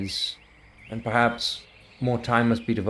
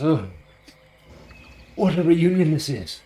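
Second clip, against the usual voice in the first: blubbering joy; 6 semitones higher, 4 dB louder than usual. Acted. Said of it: "He goes".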